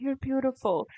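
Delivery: earnest, heartfelt, soft and high. Speaker retelling a scene, Barbie speaking to an old lady on a bench: earnest, heartfelt. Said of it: "earnestly, with the full heart".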